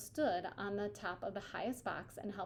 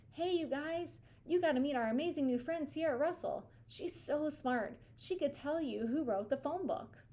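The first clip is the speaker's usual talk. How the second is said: cheerful shout; 7 semitones higher than usual. A narrator's reading. Hallie shouts to the crowd to cheer for Sierra, high and bright. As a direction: call out to rally everyone. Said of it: "he heard Hallie shout".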